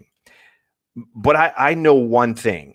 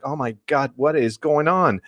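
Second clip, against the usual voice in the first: retold panic; 4 semitones higher than usual. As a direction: replay the alarm without shouting. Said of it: "it was big panic there".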